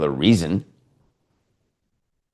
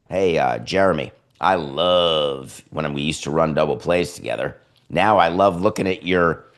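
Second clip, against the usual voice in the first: mock seductive teammate; 4 semitones lower than usual. Altuve voiced wooing Pena.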